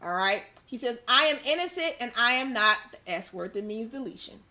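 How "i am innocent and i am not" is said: raised-voice mock protest; half-hearted courtroom yell; imitating a yell. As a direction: protest innocence, mildly imitating a shout. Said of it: "Smollett yelled at the courtroom".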